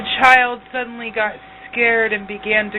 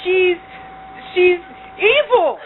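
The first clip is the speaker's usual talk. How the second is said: witch yelling; 6 semitones higher than usual. Acted. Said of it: "the witch yelled".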